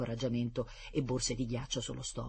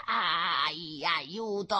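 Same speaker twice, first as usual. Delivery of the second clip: yelp for help; 4 semitones higher, much slower than usual. Acted. Dog bites professor's calves.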